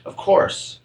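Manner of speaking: whispered, half asleep; drowsy whisper from a half-asleep dormouse; sleepy Dormouse. A narrator's reading. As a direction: breathe it out without waking. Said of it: "said without opening its eyes".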